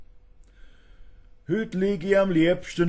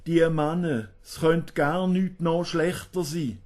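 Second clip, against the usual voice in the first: lightly acted motherly lament, raised pitch; jammernde Mutter; 3 semitones higher, 3 dB louder than usual. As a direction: wail mildly to a daughter, like a complaining mother. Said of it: "Da jammert die Mutter". (leicht jammernd, wie eine klagende Mutter)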